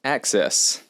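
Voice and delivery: a single breathy whispered word. Real, not acted. New agent whispers her answer to the broker. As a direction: whisper it like a secret.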